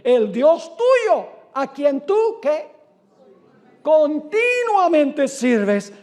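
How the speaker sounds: slow, loud and high, calling down into the pit; anguished calling out. Acted. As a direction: stretch each word out in a grieving cry. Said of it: "llamó a voces ... con voz triste".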